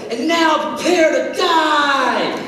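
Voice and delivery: slow, hammed-up vengeful shout through a laugh; mock villain threat. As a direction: play the avenger, laughing at the idea. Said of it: "you think he's gonna go".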